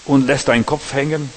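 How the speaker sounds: mild stern God voice; God rebuking Cain. Acted. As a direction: ask it as a grieved father would. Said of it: "da sprach der Herr zu Kain".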